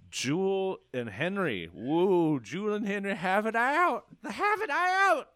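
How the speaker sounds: rising, slow, hammed-up fight announcement; dramatic announcer. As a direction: build it up like a boxing promo. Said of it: "hammed-up announcement of a fight".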